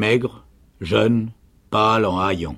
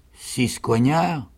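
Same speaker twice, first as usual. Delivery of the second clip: slow, higher echo of disbelief; stupefied; 4 semitones higher, much slower than usual. A narrator's reading. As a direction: draw the name out, astonished. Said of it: "le tour du sergent d'être stupéfait". (stupéfait, répète lentement le nom)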